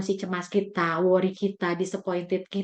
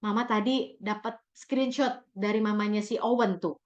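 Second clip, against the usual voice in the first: scolding mother; 3 semitones higher than usual. Shown as a demonstration. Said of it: "Jangan bilang".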